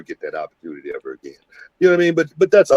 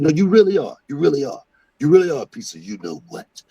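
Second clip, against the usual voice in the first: retold angry outburst; 8 semitones higher than usual. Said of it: "and I just got so upset".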